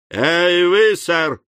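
sharp, loud call across the yard; fierce shout. A narrator's reading. Sam hailing the stranger, a fierce shout. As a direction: bark it out to stop him. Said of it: "свирепо крикнул Сэм".

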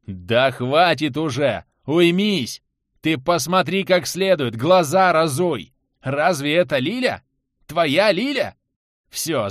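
loud angry shouting at him. Acted. Karat shouts into Anton's ear, angry shout. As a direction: shake him out of it by yelling. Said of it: "прокричал чуть ли не в ухо".

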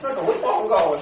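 a hint of the devotee, laughing; imitating the lay woman. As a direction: play her answer with a giggle. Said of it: "có được vui không".

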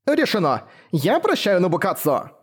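rough outburst. Acted. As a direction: blurt it out roughly to hide embarrassment. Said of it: "выкрикнула в грубоватой манере".

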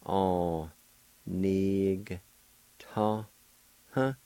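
"nig" with a clear G, then "ta, huh"; Cherokee syllables. Shown as a demonstration. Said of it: "say the G sound with the N I like this".

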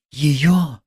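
high and drawn out, pleading; plaintive drawl. A narrator's reading. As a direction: stretch it out plaintively. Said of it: "протянула Соня жалобно".

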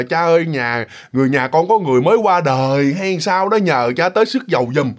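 gentle, respectful plea at the gate; polite request. Shown as a demonstration. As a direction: ask the priest nicely, as a grieving relative would. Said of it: "chứ không có nói lịch sự nữa".

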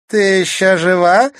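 loud, high, contemptuous sneer. A narrator's reading. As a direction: spit it out with disgust. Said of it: "скривилась Клементина".

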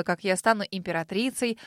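plain reading voice

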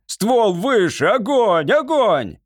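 high, urgent commands rising in pitch; agitated shouting. A narrator's reading. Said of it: "закричал лорд Фейт, взволнованно жестикулируя".

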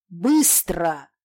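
loud harsh bark; husband barking at his wife to hurry; barked order. A narrator's reading. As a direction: snap the order like a whip. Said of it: "рявкнул на неё муж".

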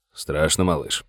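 low, soft, gentle asking; quiet question. Acted. Sheriff softly asking his frightened deputy, hushed. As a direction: ease the boy's fear quietly.

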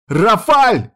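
high, loud call across the house; yelling for help. Acted. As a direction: scream the name through the house. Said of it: "заорала я на весь дом".

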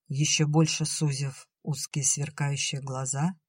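ordinary delivery

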